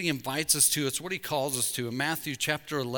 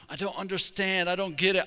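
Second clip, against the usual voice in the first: higher, frustrated protest; acted exasperation, pitched up; acted angry prayer; 4 semitones higher than usual. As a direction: protest it to God, baffled and cross. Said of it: "I'm so angry right now".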